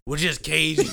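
loud retold reply through laughter; comic letdown, loud and laughing; laughing punchline. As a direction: crack up while quoting the waitress.

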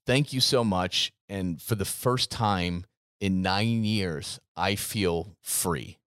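a touch of tearful gratitude, unhurried; teary thank-you. Retold or imitated. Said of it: "she was tearing up".

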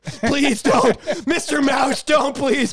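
high hammed-up begging; mock pleading. Gina begging Mickey Mouse, mock fear. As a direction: beg the mouse.

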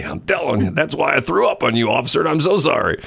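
high-pitched, hammed-up drunk; drunk driver. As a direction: gush and plead like a tipsy driver. Plays drunk driver pulled over.

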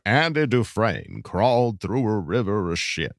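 slow, measured film-narrator impression; lightly voiced slow storyteller; deliberate movie narration, drawn out; Morgan Freeman. Shown as a demonstration. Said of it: "How do you get into your Morgan Freeman".

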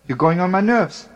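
half-shouting at an annoying comrade; retold yelling. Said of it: "I keep on yelling at him".

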